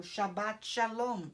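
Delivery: Shabbat Shalom, slow, falling on Shalom; slow Hebrew greeting. Shown as a demonstration. Teacher showing the sabbath greeting, slow careful demo. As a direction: say Shabbat Shalom slowly and clearly. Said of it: "eu posso cumprimentá-lo".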